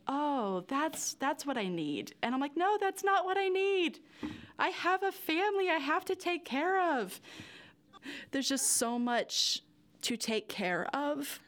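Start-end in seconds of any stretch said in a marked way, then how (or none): 0.1-2.1 slow, a touch of relief; relieved sigh. Retold or imitated. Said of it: "It's crying of relief of". 2.6-7.2 higher and louder, a startled self-correction; alarmed inner voice. Retold or imitated. Inner voice snapping back.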